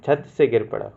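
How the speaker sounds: से stressed in "छत से गिर पड़ा"; correct version again. Shown as a demonstration. Teacher repeats the correct sentence to students, low and firm on से. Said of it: "पर नहीं आएगा यहाँ पे".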